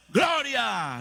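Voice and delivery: retold shouted reply; a soldier's shout, imitated; mock troop shout. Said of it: "ustedes dicen".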